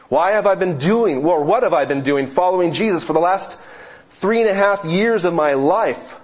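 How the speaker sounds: rising, anguished questioning; lightly voiced despairing disciple; disciples wondering. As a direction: plead the questions with growing urgency. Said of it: "wondering to themselves".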